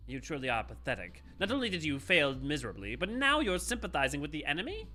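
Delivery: cold scornful villain. Acted. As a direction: threaten him with contempt. Villain threatens his underling.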